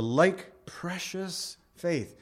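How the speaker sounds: "precious" drawn out slowly, set apart; emphasis on precious. Real, not acted. Preacher underlining the verse's key word, slow stress on "precious". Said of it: "emphasize that word precious enough".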